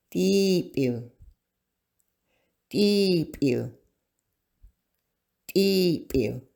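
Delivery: Deep U, long ee in deep, clear oo at end; Deep U said carefully for learners to copy; model word Deep U. Shown as a demonstration. Teacher modeling Deep U to students, careful long vowels. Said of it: "is the double I sound".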